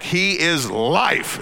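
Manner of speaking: LIFE drawn out slowly and intensely; emphatic LIFE. Shown as a demonstration. Preacher telling congregation the word is emphatic, emphatic LIFE. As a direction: stretch "He is LIFE" with great weight on LIFE. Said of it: "that word is emphatic".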